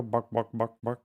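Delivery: "buck, buck, buck" as a chicken cluck. Shown as a demonstration. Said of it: "No, they go".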